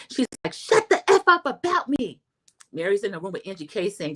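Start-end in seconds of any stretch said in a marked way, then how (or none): 0.5-2.2 high, loud imitated shout; mock shout. Vlogger mimics Lisa shouting at the others, high and loud. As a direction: yell it at them.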